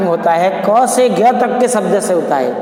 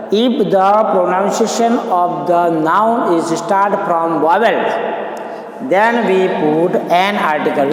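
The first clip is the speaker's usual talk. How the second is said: slow dictation; much slower than usual. Shown as a demonstration. Teacher dictating a rule.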